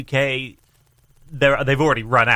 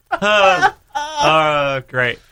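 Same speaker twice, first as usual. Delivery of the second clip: hammed-up exasperation, pitch jumping; mock dismay; 4 dB louder, much slower than usual. Patient told the shot will not work, mock dismay. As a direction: groan in exaggerated dismay.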